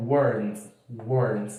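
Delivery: "weren't" said as /woɾnt/, falling tune; English contraction demo. Shown as a demonstration. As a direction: model "weren't" twice. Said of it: "é no passado e were". ("weren't" pronunciado com tom descendente)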